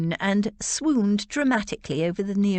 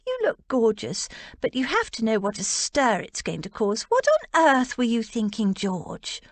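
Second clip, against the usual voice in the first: Rose, exasperated; 4 semitones higher than usual. Acted. Rose scolds the bride.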